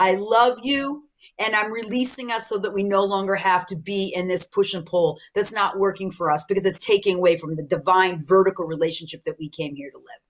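slow, gentle farewell fading to a hush; slow, tender release. Shown as a demonstration. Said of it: "It can be like".

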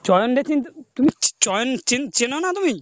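hoarse, halting disguised voice; gravelly voice. Pretend. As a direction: stumble through in a rough voice. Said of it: "তোমার গলা তো এরকম না".

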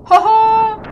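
loud, high hoho; a gleeful, loud hoho; 1 triumphant whoop. Real, not acted. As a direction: crow with delight at the find. Found secret passage.

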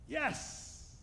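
breathy high whispered cheer; a secret victorious hiss of yes; hushed yes. Acted. Women cheer Eve's excuse, whispered triumphant yes.

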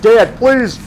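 put-on high, begging little boy's voice; whiny kid pleading with dad; pleading child. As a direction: beg like a five-year-old on his knees. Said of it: "I said".

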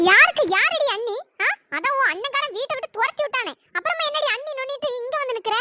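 indignant challenge, first words hit hard; angry. Acted. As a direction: scold a visitor who is not welcome. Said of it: "please கோவப்படாதீங்க".

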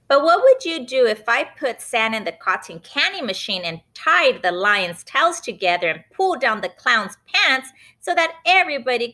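Benny's voice. Acted. Boy Benny testing his mom, cheeky and high. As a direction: push her with a teasing question.

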